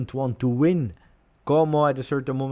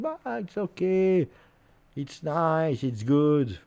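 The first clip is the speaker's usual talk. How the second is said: sarcastic; 6 semitones higher, slower than usual. Acted. Fake cheer after elimination.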